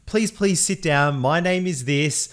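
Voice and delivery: imitated optometrist putting a patient at ease; comfortingly welcoming. Optometrist settling a new patient in, mildly reassuring. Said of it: "He makes me feel comfortable".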